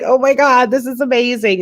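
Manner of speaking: high, thrilled "oh my God"; excited gasp. Retold or imitated. To herself watching Olympics, mock thrilled. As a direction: gush like a new superfan.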